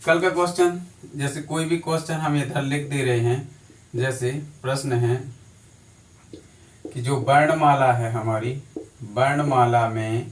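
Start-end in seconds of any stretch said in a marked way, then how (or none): none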